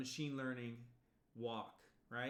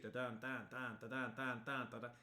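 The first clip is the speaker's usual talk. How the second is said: hummed music. Shown as a demonstration. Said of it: "or there's music".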